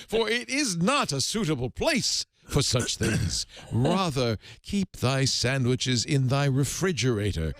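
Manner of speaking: slow, solemn divine sermon; mock voice of God. The Lord admonishing the man, mock solemn. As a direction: preach it like the Almighty. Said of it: "so I'll do the accent of God".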